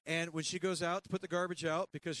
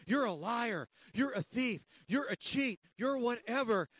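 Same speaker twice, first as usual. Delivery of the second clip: pointed accusations, raised a little in pitch; accusing voice; 4 semitones higher than usual. Acted. Law's voice accusing the listener, mildly accusatory. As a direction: jab each accusation home.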